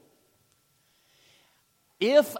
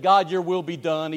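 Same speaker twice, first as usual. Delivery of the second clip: resentful; 5 dB louder than usual. Retold or imitated. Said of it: "you say it resentfully".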